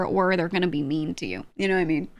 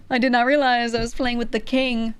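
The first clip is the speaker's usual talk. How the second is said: laughing mock grovel; 4 semitones higher than usual. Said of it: "they'll be like".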